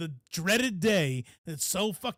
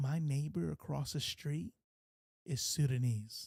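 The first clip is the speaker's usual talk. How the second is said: much quieter, lower pitch, under the breath; 7 dB quieter than usual. Talking by a window about a neighbor across the street, in a lowered voice. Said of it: "let me lower my voice a little bit".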